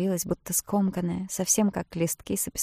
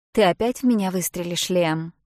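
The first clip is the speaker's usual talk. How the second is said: louder challenging question; raised voice; 5 dB louder than usual. Acted. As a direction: raise your voice so Robbie hears. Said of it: "нарочно возвысив голос". (нарочно громче, чтобы услышал Робби)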